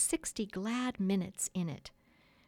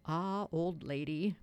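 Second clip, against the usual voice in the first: fond aside; slower than usual. A narrator's reading. Husband aside to wife by the fire, fond and slow. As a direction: say it slowly, just to her. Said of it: "Peter said aside to Wendy".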